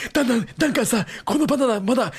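kindly advice in a high put-on comedian's voice; gentle Takeshi. Co-host as kindly Takeshi advising Dankan about bananas, gentle impression. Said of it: "優しいたけしはいいねんな".

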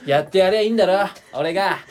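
japanese delinquent tough talk. Pretend. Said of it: "中二病みたいな人いるじゃん".

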